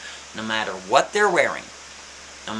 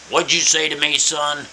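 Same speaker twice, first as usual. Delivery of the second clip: put-on furious old man; 4 dB louder than usual. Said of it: "the old man is furious".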